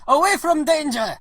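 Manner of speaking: put-on high, dramatic Russian-accented proclamation; heavy Russian accent. Driver vows to protect John, heavy Russian accent. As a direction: declaim it as a Russian comrade. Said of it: "a guy with a heavy Russian accent".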